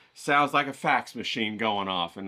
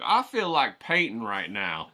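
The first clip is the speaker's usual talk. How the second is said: mock injured painter; 2 semitones lower, slower than usual. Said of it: "then be like".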